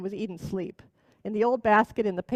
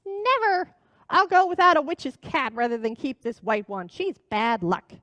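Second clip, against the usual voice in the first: put-on old witch refuses the white kitten; shrieking witch. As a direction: fling the refusal like a cross hag. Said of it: "shrieked the witch".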